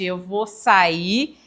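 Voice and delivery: "eu vou sair" very slow and drawn out; slow comedian line. Retold or imitated. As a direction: stretch "eu vou sair" slowly, teasing. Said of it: "falavam assim".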